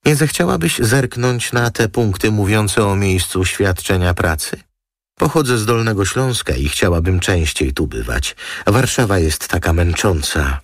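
high, coaxing fashion-model voice; glamorous model. Acted. Model coaxing the lawyer over her contract, high and sweet. Model asks Roma for a favour.

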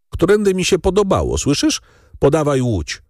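high, fast and brusque order; brusque, haughty command; curt command. A narrator's reading. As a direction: put the servant in his place. Young master snubs the gamekeeper.

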